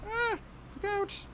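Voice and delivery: sudden high-pitched yelp; startled yelp. Real, not acted. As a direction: cry out in sudden alarm. Kitten startles the GM.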